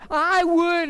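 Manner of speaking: high-pitched mock yell; retold screaming. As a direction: keep up the hammed-up scream. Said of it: "I start screaming".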